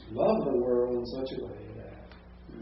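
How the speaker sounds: slow reading, "loved" lifted at the start; emphasised paraphrase. Shown as a demonstration. Teacher offers a paraphrase of the verse, slowed stress on "loved". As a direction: lean on "loved", then ease through the rest. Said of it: "that would be a paraphrase".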